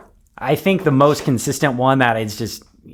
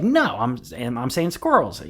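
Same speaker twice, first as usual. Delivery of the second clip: put-on insistent toddler; 2 semitones higher than usual. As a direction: mimic a child correcting her parents. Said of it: "And she's like".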